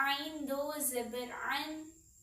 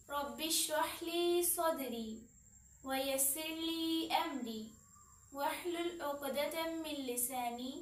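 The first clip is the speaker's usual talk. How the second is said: prayer recitation; 3 dB quieter than usual. Acted. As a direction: recite the dua reverently before class. Recites opening dua.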